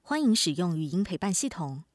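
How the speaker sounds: even, polite automated assistant voice; smart speaker. Acted. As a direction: read it like a voice assistant announcing modes.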